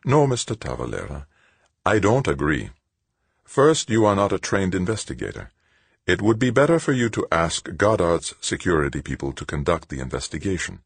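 lightly voiced sister, firm refusal; composed Sister Angelique. Sister turns down the man's request to go, composed. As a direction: correct him with calm authority.

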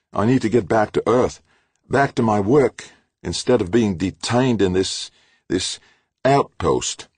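high, loud, building irritation; irritated rant. A narrator's reading. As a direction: vent at the assistant. Halleck ranting to Trudy.

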